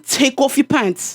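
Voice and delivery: mock English accent. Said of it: "now England accent".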